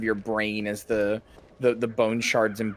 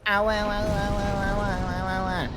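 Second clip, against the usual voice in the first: higher, put-on little yelps of ow; squeaky whimpering pet; 7 semitones higher than usual. Streamer voices Charlotte yelping while being held, high put-on whimpers. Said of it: "and you're going".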